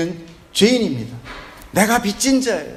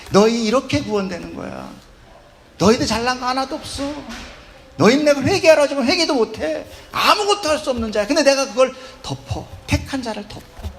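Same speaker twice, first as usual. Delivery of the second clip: God's stern voice; 5 semitones higher than usual. Acted. Voicing God to sinners.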